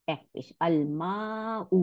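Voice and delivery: slow careful Arabic reading; slow Arabic model. Shown as a demonstration. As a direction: spell out আল মাউ slowly, syllable by syllable. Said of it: "আলিফ জবর মা".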